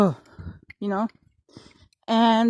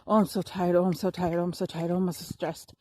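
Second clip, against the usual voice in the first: mock whiny moaning; 3 semitones lower, 3 dB quieter than usual. Mimicking her own tired self-pity, whining and fading. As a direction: moan that you're tired, trailing off softer. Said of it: "if I walk around and be".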